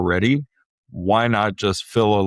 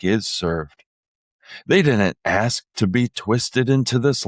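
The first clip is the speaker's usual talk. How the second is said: upbeat commercial read; mock radio ad voiceover; announcer voice. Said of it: "read it in your best announcer voice".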